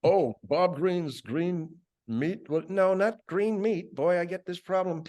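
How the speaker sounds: high, slow, exaggerated chef character voice; chef Chodilia voice. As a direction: play the fussy chef, high and drawn out. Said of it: "he talks like this".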